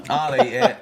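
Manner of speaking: high, loud, laughing disbelief; laughing mockery. Host mocking friend's cooking boast, laughing in disbelief. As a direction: mimic him while cracking up.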